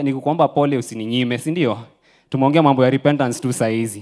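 pleads loudly with the congregation, pressing fast; loud pleading. Real, not acted. Preacher loudly pressing the congregation on repentance, forceful. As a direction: raise the voice, pushing the point home.

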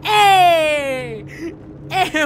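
high, loud cry of alarm; startled shout. Real, not acted. Player shouting at a character, high and loud. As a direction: yell out to stop them.

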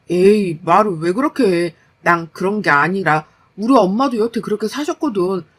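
lightly voiced husband making excuses; defensive husband. Husband excusing himself to his wife by his mother's ways, defensive. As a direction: brush off the complaint, mildly put out.

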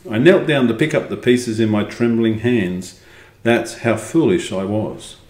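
measured, expressive storybook reading; story narration. A narrator's reading. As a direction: read it out as a first-person tale. Reads the story aloud.

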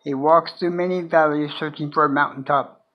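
measured recital with long pauses between lines; poem reading. Acted. Sharing own poem The Drifter with viewers, poem reading.

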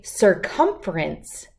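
slow, syllable by syllable "circumference"; careful pronunciation. Shown as a demonstration. Teacher modelling the word for children, slow and careful. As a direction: spell out "circumference" slowly for kids.

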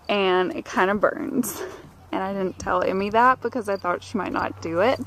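breathless from the stairs; winded after climbing stairs; out of breath. Real, not acted. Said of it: "I'm out of breath from the stairs".

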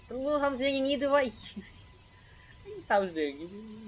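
giggling through the words, embarrassed; laughing at own voice. Real, not acted. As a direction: laugh it off, self-conscious. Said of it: "ทำเสียงเองอายเอง".

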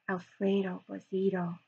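hushed crowd whisper. Acted. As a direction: breathe the name in fear. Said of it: "whispered the crowd".

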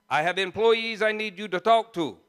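lightly voiced Trinidadian boss; a hint of Trinidadian accent; mimicked Trinidadian accent. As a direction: imitate the Trinidadian old boy. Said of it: "I can mimic that old boy".

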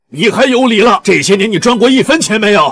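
heated, contemptuous reproach; angry berating. Acted. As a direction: pile up accusing questions. Husband berates wife over money.

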